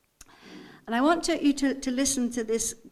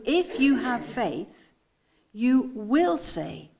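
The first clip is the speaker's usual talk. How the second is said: measured "have", then a weighty, drawn-out "will"; stress on will; 4 dB louder, slower than usual. Shown as a demonstration. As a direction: stretch "will" as a certain promise. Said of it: "Can you see, again, the difference here?".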